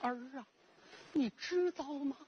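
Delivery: put-on high-pitched, pleading inner voice of a grieving old mother; mother's silent lament. Blind mother in a cold kiln longing for her emperor son, high aching lament. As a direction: ache for the son you may never see, voice lifted high. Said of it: "心里在叨叨念念".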